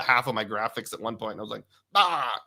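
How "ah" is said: mock cry of dismay; exasperated cry. Host reliving his graphics mistake, mock-dismayed "Ah!". Retelling reaction to own mistake.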